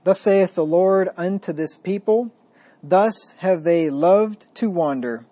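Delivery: slow, solemn scripture reading; deliberate, weighty reading of scripture. Acted. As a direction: read each phrase with grave weight. Reads Jeremiah passage aloud.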